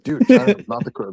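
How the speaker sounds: high, loud mock-indignant quote; mock protest. Quoting a man objecting to the word, high mock protest.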